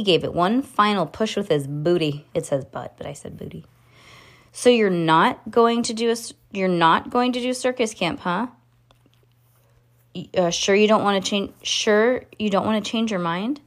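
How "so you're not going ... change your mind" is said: lightly voiced Judy. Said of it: "Judy asked".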